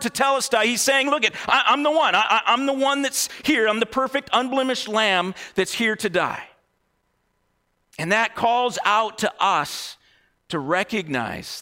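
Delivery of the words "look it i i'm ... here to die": raised, earnest proclamation; proclaiming. Acted. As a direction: announce it eagerly, pitched up at the start. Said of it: "he proclaims this word".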